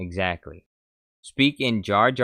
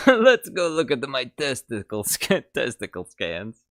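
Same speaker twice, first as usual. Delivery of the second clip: mock Watto; 5 semitones higher, 6 dB louder than usual. Joke Watto line.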